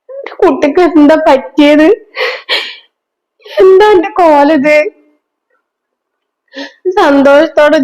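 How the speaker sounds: a mother weeping over her daughter's state; mother weeping to her battered daughter, voice lifted and tearful; crying mother. Acted. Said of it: "നിങ്ങൾ ഇങ്ങനെ കരയല്ലേ".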